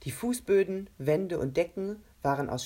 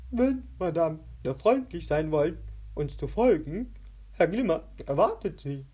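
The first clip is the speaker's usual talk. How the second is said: louder, throaty guttural man; 3 dB louder than usual. A narrator's reading. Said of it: "mit seiner kehligen Stimme".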